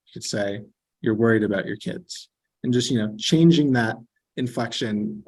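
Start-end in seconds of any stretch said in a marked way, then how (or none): 1.0-2.3 falling statement intonation; statement tune. Shown as a demonstration. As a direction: say it flat as a statement, dropping at the end. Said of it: "turning our inflection down at the end".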